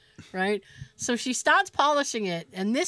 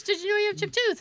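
hygienist voice; 9 semitones higher, faster than usual. Retold or imitated. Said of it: "she goes".

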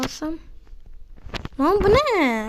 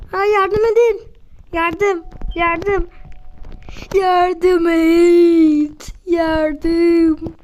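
mock cry for help; much slower than usual. Player locked in by game character, mock calling help. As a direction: call out as if trapped, half-joking.

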